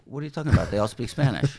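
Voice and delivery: loud, high, baffled outburst; as if the question makes no sense; incredulous. Retold or imitated. Showrunner retelling his baffled answer to a friend, loud incredulous outburst.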